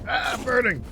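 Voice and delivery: mock panic. Mock panic at burning avatar.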